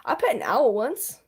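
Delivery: talking with a bitten tongue; just bit tongue. Real, not acted. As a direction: speak through a sore tongue. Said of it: "Ow, I just bit my tongue".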